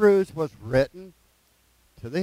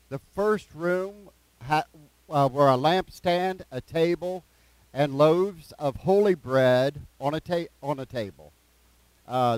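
slow, measured scripture reading; unhurried reading aloud with pauses. Real, not acted. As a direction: read it out slowly, phrase by phrase. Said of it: "just read it slow".

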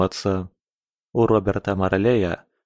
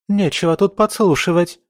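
irritated rebuke, pitched high; high-pitched, moderately angry outburst; mild shout; 6 semitones higher, 3 dB louder than usual. A narrator's reading. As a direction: scold an eavesdropper with a slightly raised voice. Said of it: "крикнула ей Камилла".

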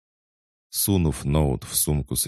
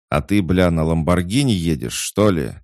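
loud, higher angry retort; barked; 4 semitones higher, 6 dB louder than usual. A narrator's reading. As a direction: bark it back sarcastically. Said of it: "рявкнул Айван".

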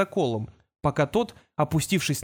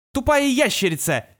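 high, sharp cry of frustration; angry outburst; 9 semitones higher, 3 dB louder than usual. A narrator's reading. Kol kicks the desk and yells at the lizard, angry cry. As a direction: yell at the lizard, higher and louder. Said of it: "вскрикнул Кол".

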